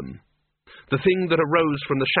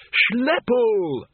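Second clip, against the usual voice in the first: high excited cry of recognition; excited call; 10 semitones higher than usual. A narrator's reading. Windle calls to the bogeyman, surprised and glad.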